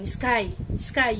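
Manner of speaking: restrained, serious call of a name. Retold or imitated. Pry calls to a frozen Sky, seriously. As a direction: call the name soberly, at normal volume. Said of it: "você vê o Pry tão sério".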